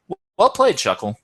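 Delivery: high, stunned well played; surprised praise. Real, not acted. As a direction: blurt out well played, caught off guard. Impressed by opponent's play.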